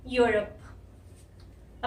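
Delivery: 'यूरोप' slowly, with short open first vowel; pronunciation model. Shown as a demonstration. Teacher shows learners the continent name, slow careful 'यूरोप'. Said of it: "इस ओ की भी जो sound".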